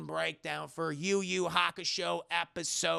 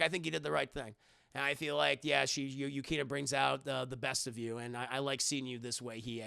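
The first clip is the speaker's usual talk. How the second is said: low, soft acted reassurance; imitated heartfelt low voice; sincere praise; 6 semitones lower, 5 dB quieter than usual. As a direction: praise a friend gently, voice dropped.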